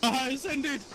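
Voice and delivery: excited. Real, not acted. Teleport joke, laughing.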